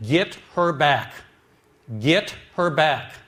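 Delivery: slow, loud, pleading; retold desperate shout. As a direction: demand it back, slow and loud. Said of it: "and I shouted".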